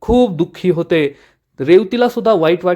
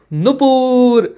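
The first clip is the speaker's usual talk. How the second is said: calling Nupur out in fury, pitched up high; angry shout; 6 semitones higher, much slower than usual. Retold or imitated. Malhar furiously shouting for Nupur over spoiled sweets. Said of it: "Malhar जोरात ओरडतो".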